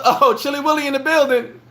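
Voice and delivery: high, laughing excited shout-out; hype call. Real, not acted. Greeting Will as he walks in, laughing hype call. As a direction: announce him like he just walked on stage.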